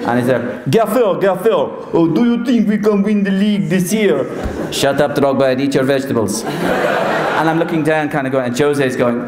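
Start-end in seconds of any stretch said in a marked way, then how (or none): 0.7-4.3 much higher, eager player voice; Drogba's voice. Retold or imitated. Drogba asking a question. 4.7-6.4 Mourinho impression. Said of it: "I would do Jose Mourinho".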